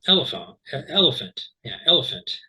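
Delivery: "elephant" said EL-uh-funt, stress on the first syllable; elephant example. Shown as a demonstration. Teacher giving a comparison word. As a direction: model "elephant", stress up front. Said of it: "a word like".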